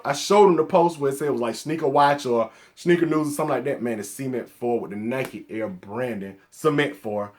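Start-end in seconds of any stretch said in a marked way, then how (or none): 4.0-4.8 southern pronunciation of "Cement Fold", stress up front; southern accent. Real, not acted. Atlanta vlogger naming a shoe, southern accent. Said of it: "don't like my southern accent". 6.5-7.3 "Cement Four" with an unstressed first syllable; careful standard pronunciation. Shown as a demonstration. Vlogger correcting himself for accent critics, careful pronunciation. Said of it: "For all y'all who don't like my southern accent".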